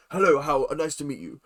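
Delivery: lightly put-on voice for a funny greeting; imitated greeting. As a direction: imitate someone's comical hello, affectionately. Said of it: "I just love his, like".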